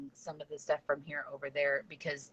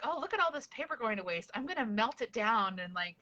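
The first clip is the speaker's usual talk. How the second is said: higher-pitched, keen self-quote; retold eager idea; 4 semitones higher than usual. Homeschool kid spotting waste paper in the office, retold eagerly. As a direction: imitate yourself hatching a bright idea. Retells her own bright idea.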